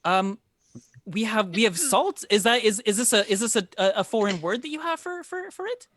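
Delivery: high, halting, puzzled questions; confused hostess in a high woman's voice; flustered baker woman. Acted. Game master plays baker Bella.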